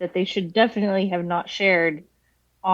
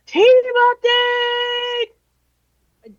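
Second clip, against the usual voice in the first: high shouted frat bro call; 13 semitones higher, 3 dB louder, slower than usual. Pretend. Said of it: "my impression of a frat bro".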